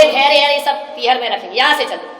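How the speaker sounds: stubborn outburst. Retold or imitated. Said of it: "बोले".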